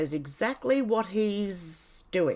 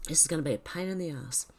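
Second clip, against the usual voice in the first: whispered aside; 5 dB quieter, faster than usual. Real, not acted. Muttered aside after coughing.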